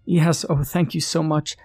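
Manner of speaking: high, fast, breathless relief; relieved little girl. Acted. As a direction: gush out thanks in relief. Relieved girl meets stranger.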